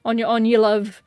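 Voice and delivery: a hint of a patronising policeman; mocking UK police. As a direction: scoff like a bored British officer. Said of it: "U K police would be like".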